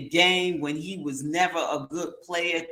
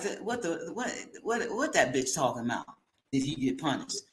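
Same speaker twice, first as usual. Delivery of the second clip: mocking quote; 3 semitones lower, 7 dB quieter, faster than usual. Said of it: "He's like".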